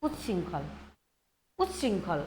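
উচ্ছৃঙ্খল said low and deliberate, the ছ clearly aspirated; slow demo pronunciation. Shown as a demonstration. Bengali teacher showing the class how to say উচ্ছৃঙ্খল, low and careful. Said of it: "এই উচ্চারণ করছি".

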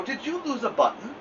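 a tiny polite chirp; little sparrow. Acted. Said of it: "said the sparrow".

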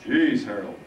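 loud phlegmy exclamation. Acted. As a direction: chide him in a phlegm-filled voice. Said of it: "the phlegmy voice responded".

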